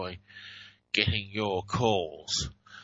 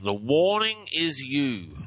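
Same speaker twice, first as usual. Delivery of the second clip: slow; 2 semitones higher, slower than usual. Shown as a demonstration. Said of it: "And this one".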